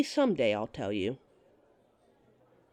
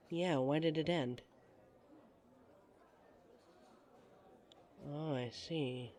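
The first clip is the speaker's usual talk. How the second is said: much softer, slower, gentle listening; soft sympathy; 2 semitones lower, 10 dB quieter, slower than usual. Acted. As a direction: hush down and listen with care. Listening to his breakup story.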